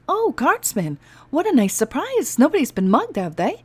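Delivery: high, bright-eyed cheer; delighted. Acted. An elf delighted to see the guardsman at her door. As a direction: greet him like an old friend.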